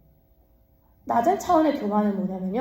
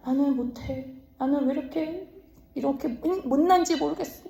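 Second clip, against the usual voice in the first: higher, softer self-pitying whine; 3 semitones higher, 4 dB quieter than usual. Retold or imitated. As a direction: sigh out how useless you are. Self-pitying person voiced. (자기 비하하는 징징거림)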